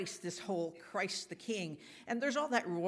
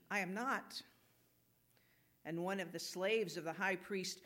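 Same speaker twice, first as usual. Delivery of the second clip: measured, solemn Gospel narration; formal church lectern reading; scripture reading. A narrator's reading. Reads scripture aloud in church.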